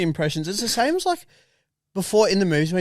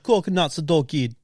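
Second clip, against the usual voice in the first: lightly put-on Jamaican accent; a hint of an imitated Jamaican advert voice; 2 semitones lower than usual. Quoting an advert for his co-host, light Jamaican accent. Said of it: "when I think of Jamaican".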